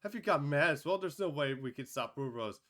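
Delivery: high, loud panicked crying out; frantic high loud shouting. Acted. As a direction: call for help in alarm. Bystanders panic at the attack.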